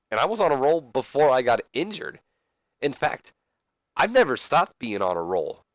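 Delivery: lightly acted promo voice; earnest wrestler promo.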